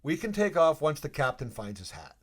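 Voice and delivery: rally the plane jokingly; mock announcement. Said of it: "I'm like".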